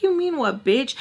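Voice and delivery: high, sharp confrontational comeback; angry retort. Retold or imitated. Squaring up to the girl at the party, angry retort. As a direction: snap back at her, picking a fight.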